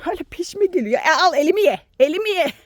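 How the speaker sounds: high, loud teasing scold; mock scolding hens. Real, not acted. Woman teasingly scolding hens pecking at her hand, high and loud. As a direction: go on, eat my hand then, playfully.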